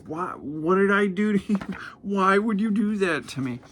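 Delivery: high, whiny mock sobbing alien; mock crying. Beaten alien asks Hercules why he hit him, mock crying. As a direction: whimper it like a hurt little alien, hammed-up. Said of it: "he starts crying".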